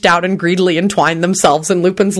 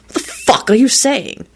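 higher, bewildered question; baffled; 7 semitones higher than usual. A narrator's reading. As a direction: demand sense in bewilderment. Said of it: "replied in a genuinely baffled tone".

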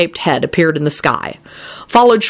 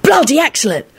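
high-pitched, delighted chatter; happy enthusing; 8 semitones higher than usual. A narrator's reading. Sirius advising Lupin amid the chaos, enthusing. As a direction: rattle it out gleefully. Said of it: "he enthused happily".

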